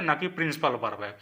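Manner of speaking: normal talking voice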